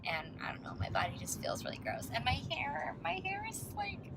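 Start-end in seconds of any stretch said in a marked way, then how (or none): 0.0-2.1 whisper. Real, not acted. Drops into a whisper.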